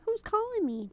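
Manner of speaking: high, slow, spooked outburst; startled what the. Retold or imitated. Hearing her name called alone, spooked high outburst. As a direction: replay the moment the name was called, rattled and high. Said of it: "I'm like".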